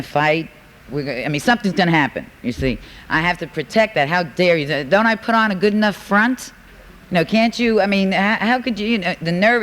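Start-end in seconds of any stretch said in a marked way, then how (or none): 4.1-9.6 mock indignation. Acting out her old indignation.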